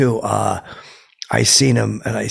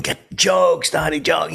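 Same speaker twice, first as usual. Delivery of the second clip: retold heckling yell; 6 semitones higher, slower than usual. Yelling at Donnie while he sings, mock yell. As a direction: call it out high, imitating your own heckle. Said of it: "I'm yelling".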